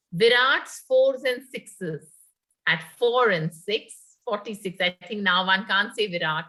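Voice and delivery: sing-song number calling; bingo caller. Acted. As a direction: call out tambola numbers. Holds housie calling with rhymes.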